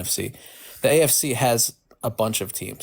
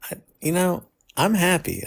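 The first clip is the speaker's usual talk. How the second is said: brighter, higher, with a smile; happy voice; 8 semitones higher than usual. Real, not acted. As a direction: let the smile come through. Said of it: "it sounds a little better now".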